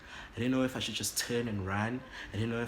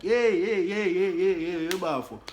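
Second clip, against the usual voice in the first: much higher and louder laughing protest; nervous laugh; 9 semitones higher, 10 dB louder than usual. Retold or imitated. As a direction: laugh it off in a panic.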